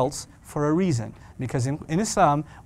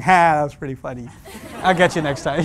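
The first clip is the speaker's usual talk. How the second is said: acted good-natured chuckle through the words; laughing it off; 5 dB louder than usual. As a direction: shrug it off to a friend with a laugh. Laughing off friends' insults.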